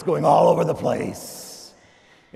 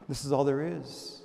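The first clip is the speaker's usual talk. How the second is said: soft repetition; 5 dB quieter than usual. Acted. Repeated, softened.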